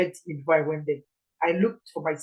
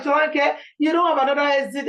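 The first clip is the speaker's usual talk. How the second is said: mocking people; 7 semitones higher, 4 dB louder than usual.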